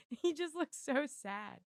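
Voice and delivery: high, slow cooing over the puppy; pet talk. Real, not acted. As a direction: coo with pity at the dog. Coos over sad-looking dog.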